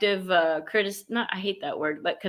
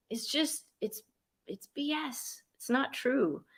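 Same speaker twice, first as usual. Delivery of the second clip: dropped dismissive aside; 5 semitones higher, 9 dB quieter than usual. Real, not acted. Dismissive aside after the quote.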